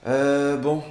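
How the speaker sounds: exasperated. Acted. Bored date asking for better conversation, exasperated. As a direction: interrupt loudly, fed up with the small talk.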